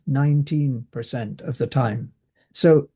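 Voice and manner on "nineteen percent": put-on "nineteen" restated with a clear, held TEEN; stress on NINETEEN. Shown as a demonstration. Lecturer confirming the right figure for students, stress on NINETEEN. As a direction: confirm "nineteen", second syllable fully sounded. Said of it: "not ninety percent".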